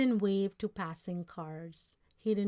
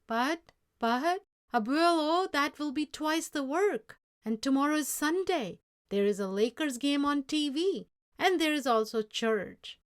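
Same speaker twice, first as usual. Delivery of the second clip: pleading; 7 semitones higher, 7 dB louder than usual. Acted. Boy pleads against extra work.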